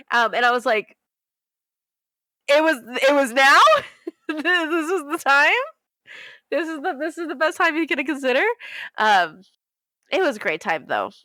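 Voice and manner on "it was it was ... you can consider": mock incredulous. Retelling a reaction to a badly timed proposal, incredulous. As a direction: question it in a raised, stretched voice.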